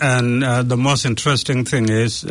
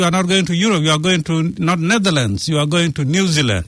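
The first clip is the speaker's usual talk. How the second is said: insistent correction; 5 semitones higher, faster than usual. Acted. Officer correcting the excited refugee.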